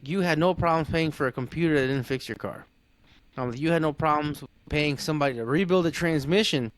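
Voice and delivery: mildly heated, building to an incredulous question; retold indignation. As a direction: re-enact telling off a customer, restrained. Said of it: "my emotions got the best of me".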